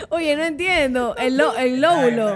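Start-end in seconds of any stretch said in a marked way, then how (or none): 1.2-2.3 laughing. Real, not acted. Leyendo entre risas.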